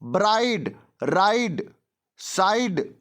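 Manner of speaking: ब्राइड, राइड, साइड as separate words with the same "-ide" ending; pronunciation demonstration. Shown as a demonstration. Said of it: "उच्चारण करके दिखाओ".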